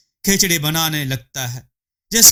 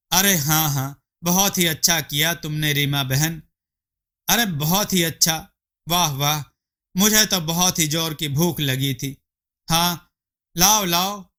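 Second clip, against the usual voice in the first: eager hungry wife; 2 semitones higher than usual. Acted. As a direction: coax him to hurry, greedy and pleased. Gulabo grabs the food.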